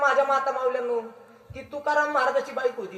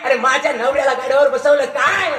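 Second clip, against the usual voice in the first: louder, rising indignant outburst ending in a curse; wife's outrage; 3 dB louder than usual. Retold or imitated. Wife sees her husband shamed, loud indignant cry. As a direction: defend her husband, voice swelling with anger. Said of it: "आली आणि पाहते".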